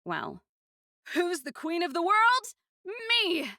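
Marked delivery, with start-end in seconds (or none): 1.1-3.5 put-on much higher, loud childish crowing; triumphant. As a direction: gloat like a little winner. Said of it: "so triumphant about the littlest things".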